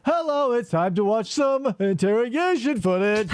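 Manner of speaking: stiff, deadpan robot voice; robot mime voice. Shown as a demonstration. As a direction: speak like a flat, mechanical robot. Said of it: "if I stopped talking like this and went like".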